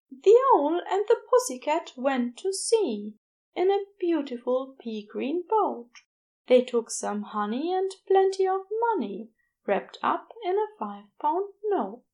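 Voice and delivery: light sing-song nursery rhyme recital; reciting a poem. Acted. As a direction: recite it gently, like soothing a child to sleep. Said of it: "he began to recite".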